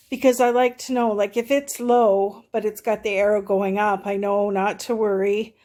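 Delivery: breathless, talking between breaths; running short of air while talking. Real, not acted. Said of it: "I'm out of breath again".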